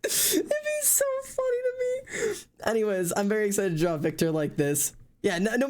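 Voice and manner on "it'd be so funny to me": crying with laughter. Real, not acted. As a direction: laugh so hard it turns to tears.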